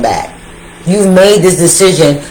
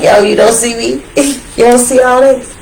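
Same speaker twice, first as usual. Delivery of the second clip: much higher, incredulous, half laughing; high showing-off quote; 7 semitones higher than usual. Pretend. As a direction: brag like you can't believe they don't see it. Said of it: "you're like".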